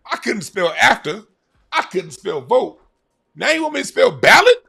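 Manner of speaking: high, raspy clueless speller; mock D L Hughley. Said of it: "D L Hughley voice".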